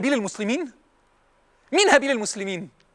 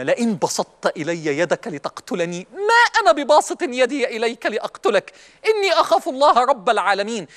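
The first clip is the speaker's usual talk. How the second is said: Quran quotation; 2 semitones lower than usual. Acted. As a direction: draw the verse out solemnly. Recites the Quranic verse.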